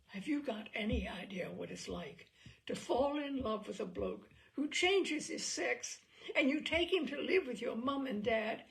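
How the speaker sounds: mounting disbelief at his own story, ending nearly laughing; building exasperation. Retold or imitated. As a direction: Bob working himself up to the inspector, building to an indignant pitch. Prisoner pleading his case to inspector.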